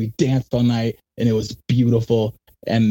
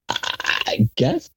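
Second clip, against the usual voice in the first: reluctant mumble. Retold or imitated. Unsure reply to camp's demand.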